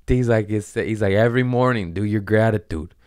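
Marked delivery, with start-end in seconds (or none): 1.1-2.9 louder New York guy giving orders; mock thick New York accent; imitated New York accent. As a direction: imitate a pushy New Yorker. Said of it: "he had a thick New York accent".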